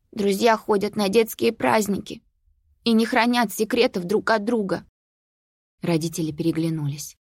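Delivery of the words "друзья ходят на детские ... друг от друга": put-on upset girl. A narrator's reading. Sophie answers mother.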